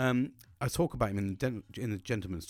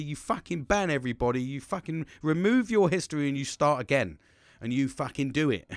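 lightly acted reckless egging-on; impulsive ADHD voice; 3 semitones higher than usual. The ADHD side urging him to delete everyone, pushy. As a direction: goad a mate in a slightly raised, urgent voice. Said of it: "then you've got the other side, the, the A D H D going".

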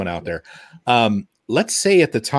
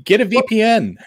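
pitched way up, parroting the cliché; mock advice; 11 semitones higher, 4 dB louder than usual. Host mocking boilerplate security advice, sarcastic. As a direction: sing out the tired tip sarcastically.

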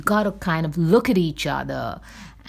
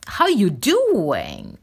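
attempted New York accent; 3 semitones higher, much slower than usual. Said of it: "New Yorkers, they usually do the".

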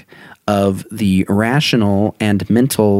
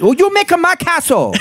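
put-on high, hammy Asian accent voice. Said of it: "We gotta stop doing Asian accents".

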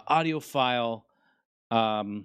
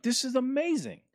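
high, gushing mock delight; higher, overexcited impression of himself; mock excited; 10 semitones higher than usual. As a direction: play the kid who wants the toy. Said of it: "I'm like".

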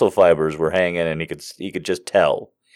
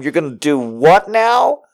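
rising, higher "what now?"; mock double-take question; incredulous; 4 semitones higher than usual. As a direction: question him in disbelief, ending high. Incredulous reply, head through chair hole.

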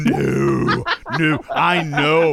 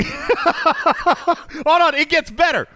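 high, laughing retelling; barely holding in laughter; giggling through the words; 14 semitones higher, 4 dB louder, much slower than usual. Retold or imitated. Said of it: "I'm like".

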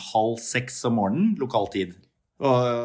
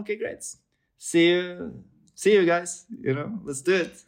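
casual star waving them off with a cheery goodbye; Johnny Depp; 9 semitones higher than usual. Retold or imitated. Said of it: "så sa han". (lys, uformell amerikansk avskjed)

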